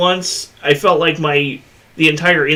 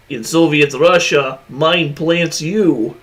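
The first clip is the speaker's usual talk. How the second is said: put-on Russian accent. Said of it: "my Russian accent's fucking horrible".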